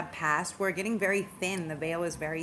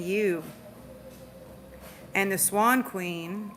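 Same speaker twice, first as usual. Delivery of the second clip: steady read-aloud of the card meaning. Acted. Tarot reader reads the Swan Queen card aloud to viewers, steady and calm. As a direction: read it like a gentle oracle.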